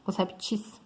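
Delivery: répteis said as reptis, ending in -tchis; alternative plural. Shown as a demonstration. Teacher repeating the rarer form, répteis said as reptis. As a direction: end répteis on TIS in place of -teis. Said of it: "também é correto".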